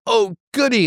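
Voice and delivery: put-on high, delighted little boy squeal; gleeful child. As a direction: squeal it like a thrilled kid.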